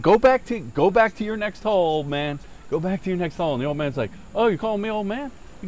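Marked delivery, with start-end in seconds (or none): 0.0-3.5 mock dismissive taunt. Acted taunt in golf quarrel. 4.3-5.3 high, indignant imitated retort; mock offence. Old man acted, taking offence.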